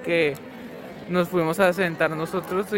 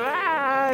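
imitated scream; 8 semitones higher than usual. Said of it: "se levantó gritando".

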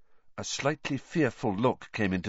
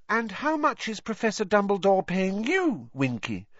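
higher, gently lilting question; kindly question; 10 semitones higher than usual. A narrator's reading. Hermione asks Winky about her pay, kindly. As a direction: ask it with kindness. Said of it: "Hermione asked kindly".

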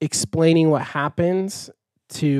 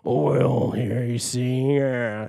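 Muppets villain; 2 semitones lower, much slower than usual. Retold or imitated. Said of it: "It sounds like the Muppets one".

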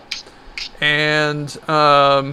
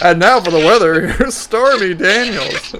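put-on weather girl voice. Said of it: "She sounds like a fucking newscaster".

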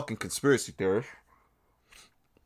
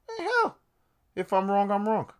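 sudden high falsetto; squeaky exclamation; 8 semitones higher than usual. Real, not acted. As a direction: jump way up into a falsetto yelp.

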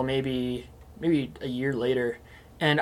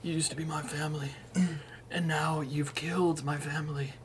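mock mobster; 9 dB quieter than usual. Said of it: "It just sounds like your normal voice".

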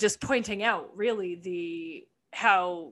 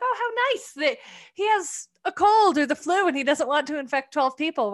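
high mock-sweet sarcasm; sarcastic; 6 semitones higher, 4 dB louder than usual. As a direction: gush it with heavy irony. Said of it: "And I was like".

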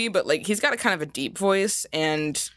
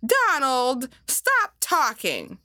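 bossy Daisy; 3 semitones higher, slower than usual. Retold or imitated. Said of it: "Daisy honestly just sounds like a boss bitch".

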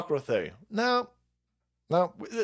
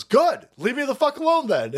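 mock defiant yell; 11 semitones higher, 5 dB louder than usual. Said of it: "And the, the guy goes".

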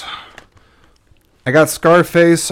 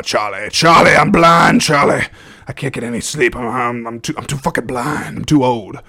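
lightly voiced blind colonel; a hint of a gruff old soldier; Al Pacino impression; 4 dB louder than usual. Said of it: "worst Al Pacino impression".

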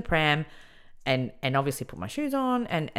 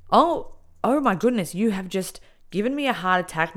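exasperated relief; 6 semitones higher, 4 dB louder than usual. Retold or imitated. Inmate inwardly reeling after her fright, exasperated shock. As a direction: let the shock pour out, stretched and high.

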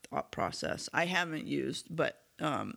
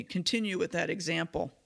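slightly hoarse, losing voice. Real, not acted. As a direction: speak through a worn-out hoarse voice. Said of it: "I might have lost my voice a little".

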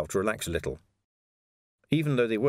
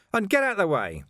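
loud, raised command; loud order; 9 semitones higher, 4 dB louder than usual. A narrator's reading. Vimes ordering the doorkeeper aside, loud. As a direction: shove the words ahead of you.

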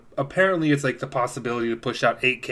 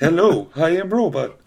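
toy robot voice; 3 semitones higher than usual. Pretend. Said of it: "it was the voice".

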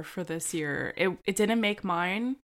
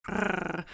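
dog growl imitation; 3 dB quieter than usual. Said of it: "They're just, like".

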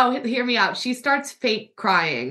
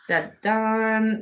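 mock suspense sting. Mock suspense before reading the prompt.

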